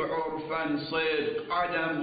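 slow, measured scholarly dictation on a level tone; formal lecture dictation. Real, not acted. Seminary teacher dictating the legal argument to students, formal dictation. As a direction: dictate the text, stretching the long vowels.

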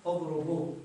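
اضربوا ends on long u, no n; pausal form, waw restored. Shown as a demonstration. Teacher shows stopping on the verb, long waw restored. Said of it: "في حالة الوقف شو نقول؟".

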